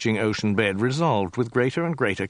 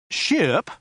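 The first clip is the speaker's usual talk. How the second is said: higher, called out ship; calling out; 9 semitones higher, 3 dB louder than usual. A narrator's reading. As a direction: call out to the ship. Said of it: "he called".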